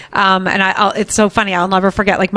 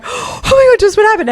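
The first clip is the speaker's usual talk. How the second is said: panicked disbelief; 14 semitones higher than usual. Retold or imitated. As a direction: sound like a mom caught off guard. Mom panicking as daughter screams.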